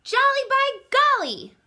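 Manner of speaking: very high, loud delight; jolly exclamation. Acted. Barnaby delighted with the treetop, loud high whoop.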